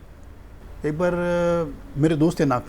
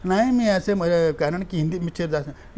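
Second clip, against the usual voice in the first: halting Marathi. Retold or imitated. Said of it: "मेरी pronunciation गड़बड़ है".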